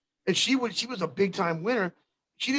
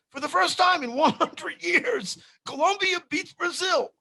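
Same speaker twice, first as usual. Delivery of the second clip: news reporter; 10 semitones higher than usual. Retold or imitated. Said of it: "the reporter on the news going".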